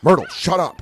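exasperated mock yell; mock scolding yell. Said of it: "either Katie or I the whole time going".

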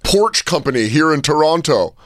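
high-pitched, blustering rich fan; self-important heckler. Acted. Company owner heckling players from the expensive seats, pompous bluster. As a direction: brag at the players like a big shot.

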